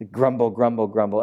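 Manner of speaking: low mock muttering; lightly acted grumbling. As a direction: grumble it low under your breath. Mimics crowd's muttered grumbling.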